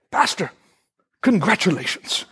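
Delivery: a lightly put-on Indian accent. Doctor phones the pastor with good news, imitated Indian accent. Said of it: "in his heavy, uh, accent, he says".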